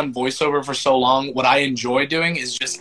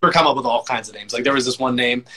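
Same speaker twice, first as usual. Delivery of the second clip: normal talking voice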